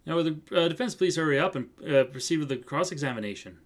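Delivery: put-on botched accent drifting into Irish; Irish-sounding accent. Judge hurrying the defense in accidental Irish accent. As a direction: let the accent wander towards Irish. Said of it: "he sounds Irish".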